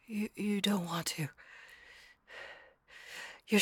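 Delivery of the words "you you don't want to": hesitant whisper. Acted. Shy girlfriend roleplay, hesitant whisper.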